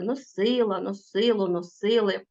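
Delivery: носила, носило, носили stressed on СИ; stress on root. Shown as a demonstration. Teacher shows pupils root stress, stressing СИ in носила, носило, носили. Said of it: "наголос падає на корінь".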